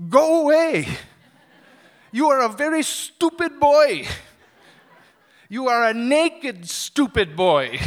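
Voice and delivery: loud, high angry yelling; retold screaming. Market man yelling at the shirtless stranger, loud and high. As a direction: shout him off the market. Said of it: "he's screaming".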